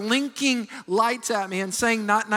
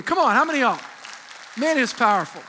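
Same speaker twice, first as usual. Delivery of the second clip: rousing call; 2 semitones higher, 3 dB louder than usual. Real, not acted. Pastor rousing the congregation.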